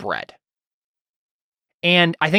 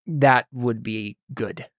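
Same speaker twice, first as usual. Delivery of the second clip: a lightly voiced dismissive priest, slow and offhand; 2 semitones lower, 4 dB quieter, much slower than usual. Priest dismissing the guild's offer of bed, dismissive. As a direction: brush it off like it barely matters. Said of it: "he says it kinda, like, dismissively".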